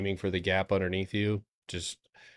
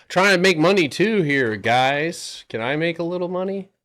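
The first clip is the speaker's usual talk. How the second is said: whiny rich guy; 9 semitones higher, 9 dB louder than usual. Pretend. Mock whining about making money.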